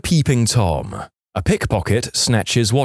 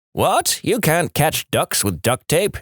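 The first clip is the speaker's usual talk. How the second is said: yelling back; 5 semitones higher, slower than usual. Acted. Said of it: "he yells back".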